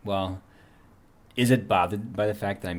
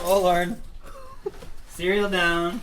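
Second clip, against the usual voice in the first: surprised cry; 11 semitones higher, 4 dB louder than usual. Real, not acted. Cereal spilled, cries out.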